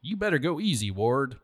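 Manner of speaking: a touch of a high snarl. Acted. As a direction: warn him, lightly snarled. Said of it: "Tyke snarled".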